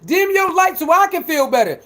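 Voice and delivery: mocking haters. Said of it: "trying to tell somebody".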